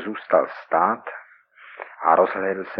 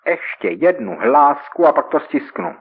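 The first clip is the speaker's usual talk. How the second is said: threat; 6 semitones higher, 4 dB louder than usual. Acted. Gunman threatens at his temple.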